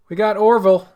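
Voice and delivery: big loud reveal; loud announcement. Acted. Announcing a bracket contestant.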